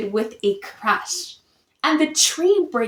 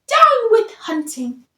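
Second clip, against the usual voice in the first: much higher, louder hoot; hooting cry; 9 semitones higher, 5 dB louder than usual. A narrator's reading. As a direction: hoot it out like an owl. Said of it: "For he hooted".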